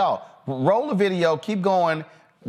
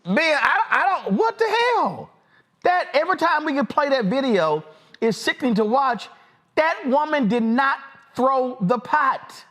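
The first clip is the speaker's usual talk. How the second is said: higher, heated and indignant; outraged disbelief; 9 semitones higher than usual. Real, not acted. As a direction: let the outrage spill out over the lie. Host outraged after the video.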